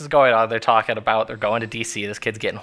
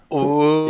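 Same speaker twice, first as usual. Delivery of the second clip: mock audience ooh; 4 semitones higher, 4 dB louder than usual. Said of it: "the audience is like".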